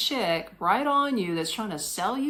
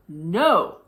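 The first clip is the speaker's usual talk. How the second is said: mild mad no; 2 semitones lower, 6 dB louder than usual. Retold or imitated. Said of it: "Then I started getting mad".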